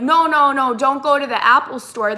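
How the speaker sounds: imitating a pushy agent's objection; urgent dissuading. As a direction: cut them off to talk them out of it. Retold scammer hastily dissuading her.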